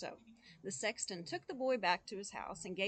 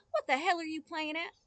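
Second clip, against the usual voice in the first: loud, higher rebuke; angry father; 7 semitones higher, 7 dB louder than usual. Acted. Father waking his son to scold him, angry. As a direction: bark at the boy.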